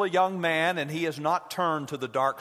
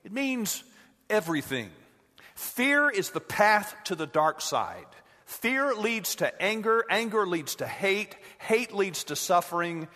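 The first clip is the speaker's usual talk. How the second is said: a hint of Yoda; 5 semitones higher than usual. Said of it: "bursts back saying".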